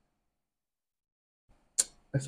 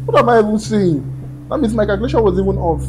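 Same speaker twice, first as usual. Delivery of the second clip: higher, louder, faster in disbelief; catching your own mistake, aghast; real shock at own miscalculation; shocked realisation; 6 semitones higher, 4 dB louder than usual. Real, not acted. Realises the toll is even worse.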